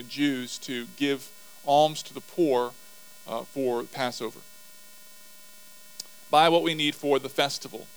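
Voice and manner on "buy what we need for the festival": Buy said with more volume and push; louder reread. Shown as a demonstration. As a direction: reread it firmer and faster.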